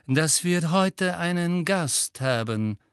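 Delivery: slow, sneering teacher voice; soft sneering voice. A narrator's reading. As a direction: drawl it with quiet scorn. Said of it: "sagte Snape leise und höhnisch".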